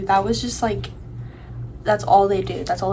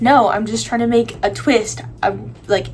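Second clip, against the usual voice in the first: a touch of mad, somewhat louder; retold irritated snapback; 4 dB louder than usual. Arguing with little sister over slime, mildly angry. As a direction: argue back crossly, retelling the spat. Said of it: "I was getting so mad at her".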